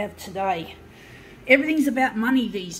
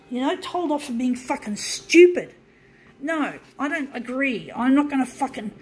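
heated rant, slightly raised voice; real anger; 2 semitones higher than usual. Real, not acted. Ranter condemning those who worship money, angry. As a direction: push each complaint out with real anger. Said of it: "fuck, I'm so angry".

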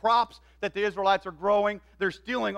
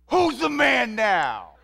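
triumphant taunt; 5 dB louder, much slower than usual. Retold or imitated. David taunting his mocking brothers.

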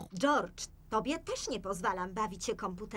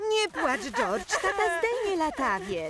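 reassuring call; 8 semitones higher, 5 dB louder than usual. Acted. Reassuring crying George over the noise.

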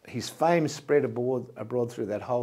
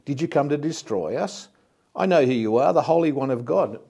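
a demon shouting its challenge, voice raised; crying out; 3 semitones higher, 5 dB louder than usual. Acted. Preacher reading the unclean spirit crying out, louder. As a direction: call it out loud and defiant, like the spirit itself. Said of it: "he cried out".

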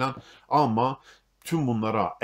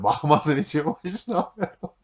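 uncle's voice; 5 semitones higher, 4 dB louder, slower than usual. Retold or imitated. Uncle voiced in retold story.

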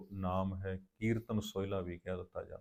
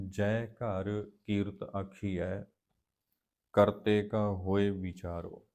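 measured, drawn-out chanting of gurbani lines; slow scripture recitation; slower than usual. Acted. Teacher recites the hymn slowly for the students. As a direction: recite each line slowly with reverence.

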